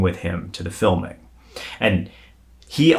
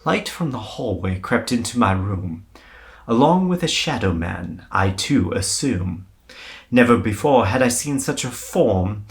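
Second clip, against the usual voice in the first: put-on British accent; 2 semitones higher than usual. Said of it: "let me try to actually say it the way he said it".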